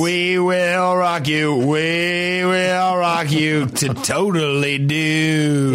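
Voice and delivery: put-on high Valley Girl party voice, drawn out on "totally dude"; Valley Girl accent. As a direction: do a hammed-up California Valley Girl. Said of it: "Like that, like".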